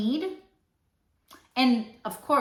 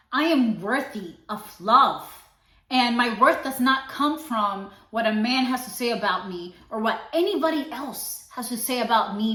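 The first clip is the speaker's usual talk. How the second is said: quoting Lori Harvey; 3 dB louder than usual. Retold or imitated. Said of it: "my girl Lori Harvey came with that one".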